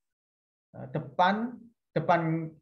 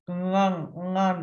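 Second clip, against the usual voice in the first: nasal congested voice; slower than usual. Shown as a demonstration. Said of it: "ini yang pilek-pilek".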